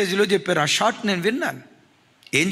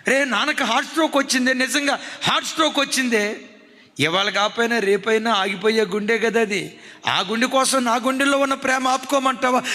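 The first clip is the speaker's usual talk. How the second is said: higher, scornful retort; defiant daughter; 4 semitones higher than usual. Retold or imitated. Daughter scorning her mother about father's stroke, higher and defiant. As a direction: throw it back at mother, higher and fast. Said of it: "ఏమంటుందమ్మా నీ కూతురు?".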